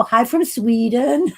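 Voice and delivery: put-on slow, half-guessed Swedish accent; mock Swedish accent. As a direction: playfully attempt a Swedish accent. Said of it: "accent should be".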